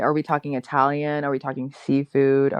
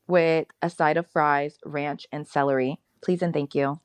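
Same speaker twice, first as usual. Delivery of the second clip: ordering at counter; 2 semitones higher than usual. Retold or imitated. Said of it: "exactly how I order it".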